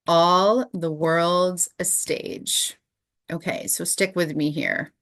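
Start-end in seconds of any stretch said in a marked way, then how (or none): 0.1-2.8 slow recitation. Shown as a demonstration. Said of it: "slow recited Shakespeare line".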